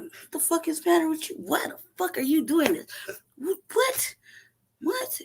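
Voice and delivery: rising disbelief. Retold or imitated. Dad confronting his son, climbing shocked squeal.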